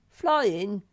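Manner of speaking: high, loud eager blurt; eager Sniff. Acted. Small creature blurts an idea, high and loud. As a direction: shout out the idea.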